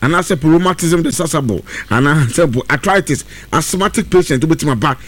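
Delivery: brisk, upbeat radio ad read. Acted. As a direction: sell the pepper and tonic to listeners. Reads a live ad.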